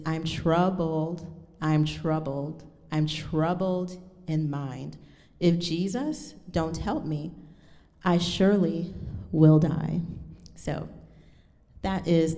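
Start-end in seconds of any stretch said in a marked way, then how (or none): 0.1-10.0 solemn text reading. Shown as a demonstration. Reads spiritual's text slowly, solemnly.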